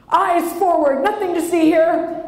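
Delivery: loud, high-pitched parent command; dad's stern order. Retold or imitated. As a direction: call it out loud to kids in the car. Voices dad driving past theater.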